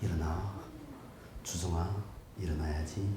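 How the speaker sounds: the timid way, barely audible; meek whispered-down wake-up; soft wrong way. Shown as a demonstration. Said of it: "이건 아니라니까".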